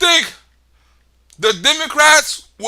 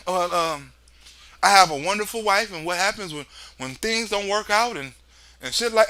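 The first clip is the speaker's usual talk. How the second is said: mock evasive Warnock; 3 semitones lower, 7 dB quieter than usual. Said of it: "acted Warnock answer".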